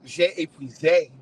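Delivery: slow mock-French j'ai épuisé; mock French aside; French phrase. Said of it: "as the French would say".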